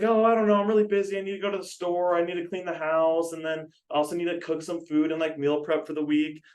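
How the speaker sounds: high-pitched retelling of a put-upon mom; imitated busy mom. Trainer retelling mom's excuses for the weekend, high mimicked voice.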